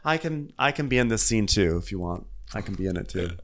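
quiet aside. Real, not acted. Aside, offering to join scene.

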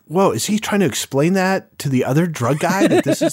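incredulous question that breaks into laughter; giggling mock confusion; laughing disbelief. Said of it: "and I'm like".

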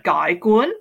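questioning GUY, then GUN sharply up; Vietnamese tones. Shown as a demonstration. Guest repeating it for the learners, Vietnamese tones. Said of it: "little kind of question mark".

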